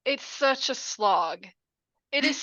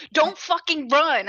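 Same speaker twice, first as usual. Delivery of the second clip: higher, slower mock yell; retold yelling; 4 semitones higher, 4 dB louder, slower than usual. Viewer yelling at characters on TV, mock outrage. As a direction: scold the screen, stretching each word. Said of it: "I'm yelling at the T V".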